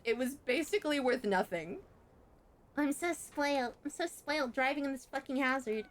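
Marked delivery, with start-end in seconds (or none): 2.8-5.8 higher mock boast, dripping irony; sarcastic. Mocking the spoiled label in a sarcastic higher voice. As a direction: say it like a joke brag about a junk car.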